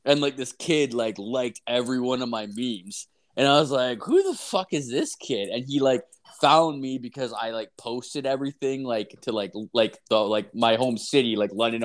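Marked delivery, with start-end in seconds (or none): 4.0-5.5 high-pitched incredulous question; baffled by a stranger, voiced higher; retold bafflement. Telling a friend about a stranger's likes, mock bafflement.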